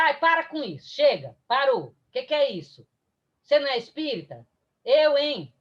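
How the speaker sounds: mock impatient telling-off, in quick bursts; hammed-up exasperated scolding; dismissive scolding. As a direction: act out brushing off a friend's worries. Acted scolding of a friend.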